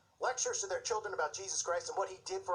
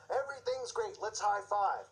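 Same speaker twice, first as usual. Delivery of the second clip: sarcastic, pitched-up pep; mock cheeriness. Mocking upbeat, uncritical Christians.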